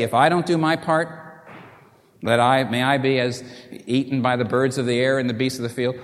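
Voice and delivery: sworn oath. Acted. Vassal's oath voiced.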